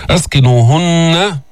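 أسكنوهن chanted slowly with a sustained nasal nun; clear ghunna. Shown as a demonstration. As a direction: hold the doubled nun of أسكنوهن in a nasal hum. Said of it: "لابد من بيان الغنة".

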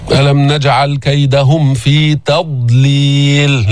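slow chanted verse; tajweed recitation; Quran recitation. Acted. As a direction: draw out every word.

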